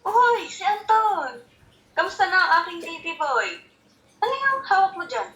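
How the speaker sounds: doting greeting. Acted. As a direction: coo happily over your baby boy. Grandparent greets small child on call.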